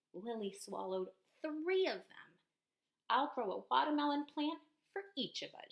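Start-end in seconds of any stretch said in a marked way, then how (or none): 3.1-5.7 higher, louder eager promise; excited child voice. Acted. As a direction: promise it with glee.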